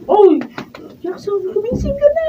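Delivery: high calling out to a sleeping husband; wife shouting at a late sleeper to get up; calling to wake him. Acted.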